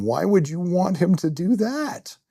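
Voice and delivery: high, slow alarmed inner voice; screaming hindbrain. Retold or imitated. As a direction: panic squeaks out of the back of the brain. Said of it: "my hindbrain is screaming".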